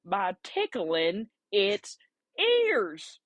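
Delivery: put-on very slow, stretched country accent; mock country accent, each word drawn long. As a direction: spell it out painfully slowly as a country caller. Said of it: "kinda country accent".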